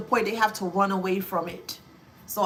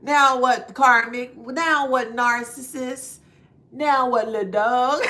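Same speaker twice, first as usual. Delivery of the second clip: taunting; 6 dB louder than usual. Real, not acted. Taunting the narcissist.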